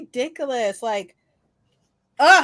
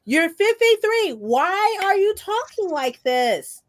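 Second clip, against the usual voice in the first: exasperated scolding; 5 semitones higher, 3 dB louder than usual. Retold or imitated. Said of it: "I was like".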